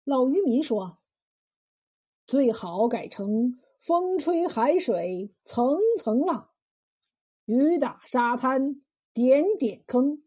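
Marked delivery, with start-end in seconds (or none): 2.3-10.2 slow, deliberate recital of the couplet; recited verse. A narrator's reading. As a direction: lay out the new lines one by one. Fisherman recites corrected verse.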